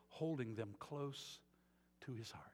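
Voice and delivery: tender hush. Acted. Tender scripture reading, whispered.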